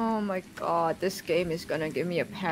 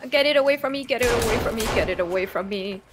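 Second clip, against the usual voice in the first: phobic panic; 3 dB louder, faster than usual. Real, not acted. Mutant attacking, pleading.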